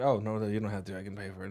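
soft hushed whisper. Retold or imitated. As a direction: whisper it so nobody hears. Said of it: "whispers to him".

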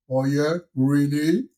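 slow, drawn-out teasing; faux-innocent really; sly mock innocence. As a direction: play dumb with a smirk.

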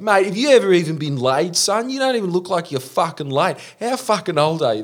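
high-pitched, jeering impersonation; mock taunting. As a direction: act out a bloke goading someone in a fight. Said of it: "him's just sitting there going".

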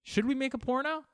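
high, eager Should we make a porno; a playful movie ad asking Should we make a porno; mock trailer voice. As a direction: pitch the question like an ad. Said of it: "imagine that being marketed".

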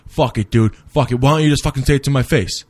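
mock angry rant, speeding up and rising; retold flip-out. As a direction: imitate a friend suddenly lashing out. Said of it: "flips out on Troy".

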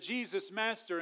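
raspy voice. Acted. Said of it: "in that raspy voice".

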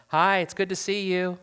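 politely fake-friendly hello; fake kindness. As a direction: greet them with put-on niceness. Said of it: "shallow kindness, fake kindness".

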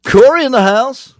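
high, loud, slow hype call; hype announcer. Acted. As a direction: announce him like a hype man. Hyping arrival like an announcer.

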